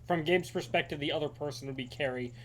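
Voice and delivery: distant, backed away from mic; far from mic. Real, not acted. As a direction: speak from across the room. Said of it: "you also sound like you're far away".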